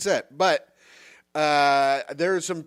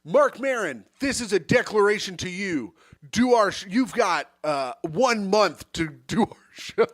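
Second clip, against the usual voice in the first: mock ultimatum; 3 semitones higher than usual. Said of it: "you're really selling it".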